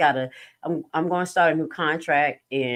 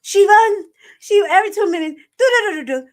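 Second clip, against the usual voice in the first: mock grandma; 10 dB louder than usual. Imitating grandma's fast talk.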